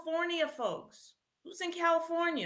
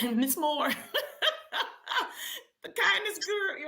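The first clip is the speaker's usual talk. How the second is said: laughing through the names. Real, not acted. Host naming guest readers, laughing. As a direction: giggle while listing guests.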